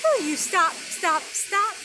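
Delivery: rising call to the little bird, stop stop. Acted. Poem's child calls to the bird, gently pleading. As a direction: coax the bird to stay. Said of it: "So I said".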